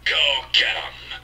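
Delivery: voice-changer robot hero voice; Optimus Prime robot voice. Pretend. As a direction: speak like a transforming robot leader. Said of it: "my sexy robot voice".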